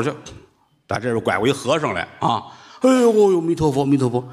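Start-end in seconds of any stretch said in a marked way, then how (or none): 2.8-4.3 monk's exclamation. Acted. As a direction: cry out in concern. Monk exclaiming.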